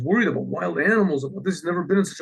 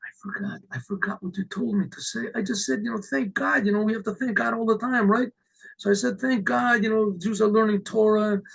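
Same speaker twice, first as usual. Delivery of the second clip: sheepish excuse; 4 semitones higher than usual. Retold or imitated. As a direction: plead forgetfulness in a small, lifted voice. Man makes excuses to the rabbi.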